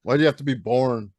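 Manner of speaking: groaned, playful complaint; hammed-up exasperated whine; mock exasperation. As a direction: grumble it with a drawn-out sigh, jokingly. Mock grumbling about wife's birthday.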